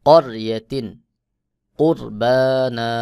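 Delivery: করিয়াতিন, কুরবানা with a thick, heavy র, কুরবানা drawn out slowly. Shown as a demonstration. Teacher demonstrates to students: heavy র, slow drawn recitation. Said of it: "রকে মোটা করে পড়তে হবে".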